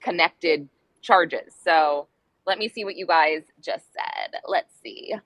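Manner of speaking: talking while chewing gum. Real, not acted. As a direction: speak around a wad of gum. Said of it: "I do have gum in my mouth".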